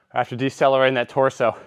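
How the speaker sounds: winded, talking between breaths; out of breath after the set. Real, not acted. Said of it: "I'm out of breath".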